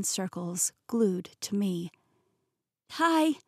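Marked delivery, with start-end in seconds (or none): 2.9-3.4 high startled squeak. A narrator's reading. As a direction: squeak it out nervously. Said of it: "I squeaked".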